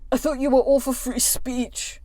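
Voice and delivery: a mocking take on the troll; voice for him. Vlogger mocking the troll's DM voice, mild sneer. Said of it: "I'll do a voice for him".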